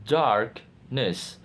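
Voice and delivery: "darkness" with DARK stressed, ness set apart. Shown as a demonstration. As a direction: split "darkness" in two, weight on DARK. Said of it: "Stress pattern".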